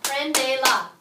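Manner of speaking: "Prendela" in three loud, separate beats; clapped-out syllables. Shown as a demonstration. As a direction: clap out pren-de-la in "Prendela". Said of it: "Clap it out".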